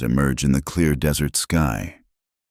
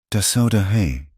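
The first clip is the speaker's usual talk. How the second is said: carefully sounded-out name, slightly raised; careful repetition; 4 semitones higher than usual. A narrator's reading. May tries Samuel's real name, repeating it carefully. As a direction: repeat the unfamiliar name with care. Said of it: "she repeated carefully".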